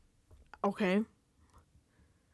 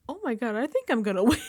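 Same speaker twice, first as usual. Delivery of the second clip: Ashley Hollis fashion; 3 semitones higher, faster than usual. Retold or imitated. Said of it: "in true Ashley Hollis fashion".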